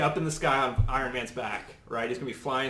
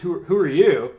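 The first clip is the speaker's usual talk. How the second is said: mildly acted, louder puzzled question; confused; 4 semitones higher, 10 dB louder than usual. Iron Man to the unknown girl, confused. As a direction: lightly voice a confused hero, pitch lifted. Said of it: "Iron Man obviously confused".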